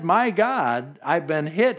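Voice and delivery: run-on exclamation, no pause after "God", "hit" left rising. Shown as a demonstration. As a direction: toss off "My God" as a mere exclamation. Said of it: "as an exclamation point or a".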